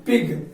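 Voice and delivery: पिग ending on a hard g; falling पिग, closed with a hard g. Shown as a demonstration. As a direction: read पिग with final G as ग. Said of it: "जी का pronunciation ग होता है".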